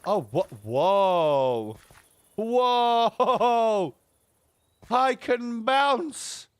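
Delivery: startled whoa. Real, not acted. Suddenly bouncing in game.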